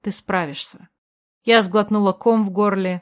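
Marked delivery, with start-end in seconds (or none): 0.0-0.9 soft whispered encouragement; whispered pep talk. A narrator's reading. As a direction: breathe it, barely voiced. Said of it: "Гидеон прошептал одними губами".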